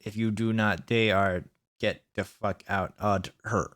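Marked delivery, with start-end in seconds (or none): 1.8-3.7 low, soft, slow grumble; quiet mock threat; mock growl. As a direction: mutter it as a deadpan aside. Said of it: "aside in grumbling mock voice".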